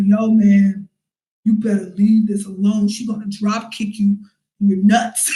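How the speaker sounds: lightly voiced friend. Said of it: "one black dude in their group".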